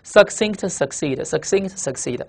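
succinct succeed, slow and evenly paced, said twice; slow, deliberate pairing of succinct with succeed; read-along word drill. Shown as a demonstration. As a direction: model succinct and succeed slowly for learners to repeat. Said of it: "先读".

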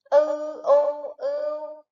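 "ư u ưu" drawn out slowly, each sound separate; slow spelling drill. Shown as a demonstration. Teacher to young pupils, slow spelling drill. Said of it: "Các em hãy đánh vần theo cô".

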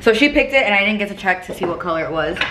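slight lisp on s sounds. Real, not acted. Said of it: "Sorry for my lisp as usual".

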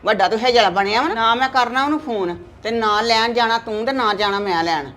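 loud stubborn telling-off; mother scolding her son at full voice; angry scolding. Acted. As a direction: put the son in his place.

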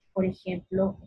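ordinary delivery

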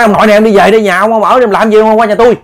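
frightened woman shouting at the neighbour to go home; scolding. Acted. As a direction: chase him off with a stern telling-off. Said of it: "Cô mới nạt nộ ra".

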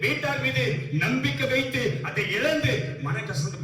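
insistent preacher's list; emphatic preaching. Real, not acted. Preacher listing lost hopes to the congregation, emphatic preaching. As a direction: preach each item as a separate push.

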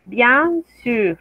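"sûr" with lips rounded and pushed forward; French u model. Shown as a demonstration. Teacher modelling the French u for students. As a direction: round the u in "sûr" tightly, not the Spanish u. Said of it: "junta un poquito más los labios".

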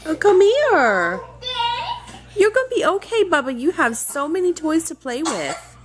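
soothing. Real, not acted. Mother comforting her crying toddler, soothing.

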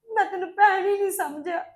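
tearful, breaking into crying; sister-in-law apologizing through tears; crying apology. Acted. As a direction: sob through the words. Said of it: "ਰੋ ਨਾ".

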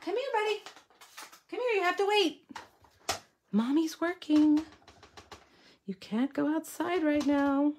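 high, coaxing call to the pet dog; sweet dog talk. Real, not acted. Mom calling her dog Matt in a high sing-song. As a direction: coo him over like a puppy.

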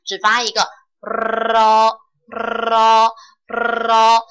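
咯咯咯 as a clean trilled r, no d; rolled r. Shown as a demonstration. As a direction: trill 咯咯咯 slowly without the d sound. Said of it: "把这个哆的音给去掉".

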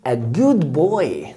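very slow, each word spaced; slow model phrase. Shown as a demonstration. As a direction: stretch it out for the pupil. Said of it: "teacher models phrase slowly". (ببطء شديد)

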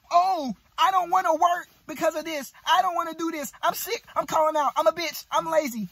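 high whiny mimic of a lazy coworker; mock lazy whiner. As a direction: whine it like someone calling in sick. Mocking lazy worker's whine.

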